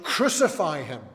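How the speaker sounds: a crowd yelling for crucifixion; retold crowd shout. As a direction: shout it like the crowd demanding death.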